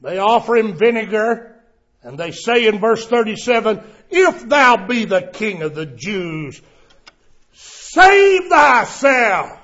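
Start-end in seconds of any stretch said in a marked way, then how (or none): 4.1-9.6 mocking soldiers. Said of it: "not just mocking".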